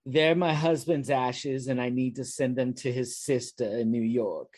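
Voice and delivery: a hint of a mournful old woman. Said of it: "the woman says".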